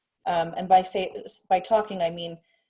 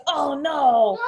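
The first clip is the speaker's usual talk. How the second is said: louder, higher mock-sad little kid; a toddler's comic little letdown; child's disappointed oh no; 6 semitones higher, 5 dB louder than usual. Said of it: "Then he goes".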